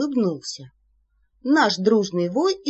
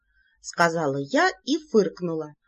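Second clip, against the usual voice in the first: ordinary delivery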